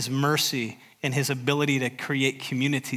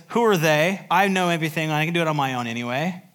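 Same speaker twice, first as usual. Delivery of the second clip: arrogant boast; 2 semitones higher, 3 dB louder than usual. Acted. Sermon voicing Pride's boast.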